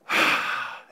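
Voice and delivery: sigh. Acted. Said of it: "Someone could do the".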